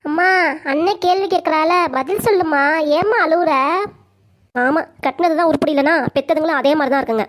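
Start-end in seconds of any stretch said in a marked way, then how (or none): 0.1-3.5 put-on little child voice. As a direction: sound like a child pleading with mom. Child asks crying mother.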